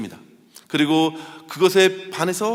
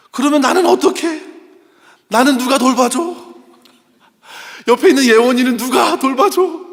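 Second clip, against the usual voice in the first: put-on higher, louder pleading child's wail; imitating a sobbing child; 7 semitones higher, 8 dB louder than usual. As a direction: mimic a little boy crying his heart out. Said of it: "펑펑 우는데 정말 서럽게 우는 거예요".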